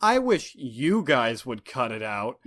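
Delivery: slow, deliberate mock sitcom delivery; lightly acted aside to the audience; sitcom line to camera. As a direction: deliver it as a drawn-out punchline. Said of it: "looks at the camera and says".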